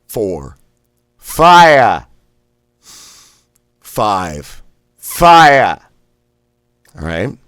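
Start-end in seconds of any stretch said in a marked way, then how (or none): 1.2-2.0 Boston "fire" barked high and loud; Boston fire blast. Shown as a demonstration. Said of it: "thrust out quickly and sharply". 5.0-5.8 Boston "fire" barked high and loud; Boston fire blast. Shown as a demonstration. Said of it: "thrust out quickly and sharply".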